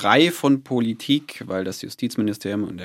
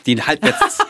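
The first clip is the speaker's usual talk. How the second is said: speaking up for the mic; projecting louder on purpose; 6 semitones higher, 5 dB louder, slower than usual. Real, not acted. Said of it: "ich sage es noch mal lauter".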